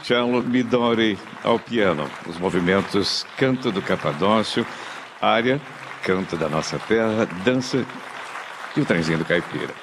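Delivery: radio announcer read. Acted. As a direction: present the programme like a classical radio host. Host's formal concert programme read. (locução formal de rádio clássica)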